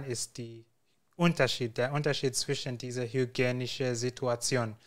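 usual speaking voice

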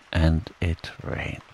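rained trailing soft and slow; fading repetition. A narrator's reading. Narrator ending the rain repetition, fading. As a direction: let the last rained fade away. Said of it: "It rained, and it rained".

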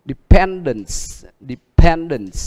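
dependence stressed on PEN, de-PEN-dence; stress rule demo. Shown as a demonstration. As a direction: model dependence for the class. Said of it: "Thì đều nhấn trước nó một âm".

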